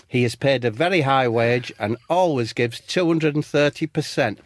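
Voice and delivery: measured, even robot delivery; lightly voiced talking machine. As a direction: recite it like a homemade robot. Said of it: "And the robot says".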